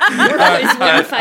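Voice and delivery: laughing. Real, not acted. Laughing through words.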